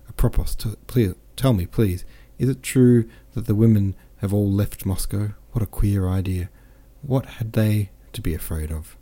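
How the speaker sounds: lightly voiced, lively boastful officer; a hint of a jovial soldier bragging; cheerful French captain. Captain boasts of his wounds to Pierre, lightly voiced jovial. Captain asks about Moscow's women.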